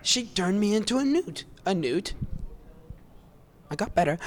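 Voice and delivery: loud, rising comic yelling; loud film quotes. Retold or imitated. Fan shouting Holy Grail witch lines at the crowd. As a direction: yell it like an angry villager mob. Quoting witch scene loudly.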